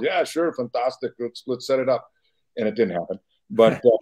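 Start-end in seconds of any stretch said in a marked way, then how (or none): 0.0-2.1 mild Austrian Arnold voice; a light Arnold Schwarzenegger accent; easy-going Arnold accent; Arnold impression. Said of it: "typical Arnold".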